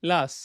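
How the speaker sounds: "লাস" with the final t left off; t dropped. Shown as a demonstration. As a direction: say "লাস" ending on s, no t. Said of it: "তাহলে লাস্টটা কি হয়ে গেল এখন?".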